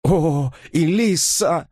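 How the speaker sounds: high plaintive whine of a lovesick preacher; whimpering. A narrator's reading. Robert whimpers to Elisa, high and whiny. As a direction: whimper her name up high. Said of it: "захныкал он".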